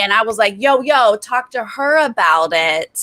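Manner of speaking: hammed-up Jersey guy, hands up, talking fast; Enzo impression. Houseguest Enzo denying it all to Danny, mock Jersey accent. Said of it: "I'm toning down my Enzo impression".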